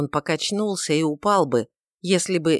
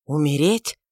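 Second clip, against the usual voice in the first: plain reading voice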